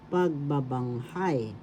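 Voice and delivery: pagbabanghay slowly, long falling HAY; stress on fourth syllable. Shown as a demonstration. Teacher repeating for learners, pagbabanghay stressed on fourth syllable. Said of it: "The accent is in the fourth syllable".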